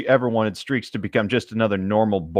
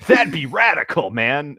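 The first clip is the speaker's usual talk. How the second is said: surfer-dude Streaks; 3 semitones higher than usual. Acted.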